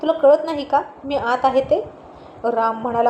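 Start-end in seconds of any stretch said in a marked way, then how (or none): 0.0-1.8 irritated, rising scold at a husband; angry scolding. Acted. Wife scolding husband who walked into the bathroom, irritated. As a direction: scold him sharply for barging in. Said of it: "चिडून म्हणाली".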